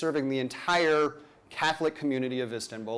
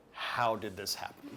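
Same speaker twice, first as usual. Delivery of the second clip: laughing disbelief; 5 semitones lower, 7 dB quieter than usual. Retold or imitated.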